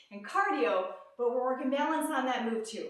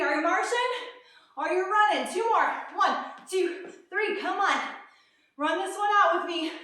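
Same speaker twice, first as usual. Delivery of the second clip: pumped-up coaching; 4 semitones higher, 5 dB louder than usual. Real, not acted. Coach pumps up class at end.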